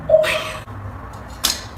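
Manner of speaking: long, loud, drawn-out gasp of shock; real shock, very slow and loud; shocked exclamation. Real, not acted. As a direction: stretch it out in horrified disbelief. Shock at hair just cut.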